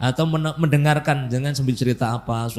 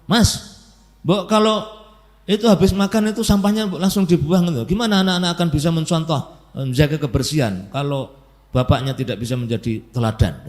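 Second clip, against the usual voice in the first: angry wife; 5 semitones higher than usual. Retold or imitated. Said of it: "Istri marah".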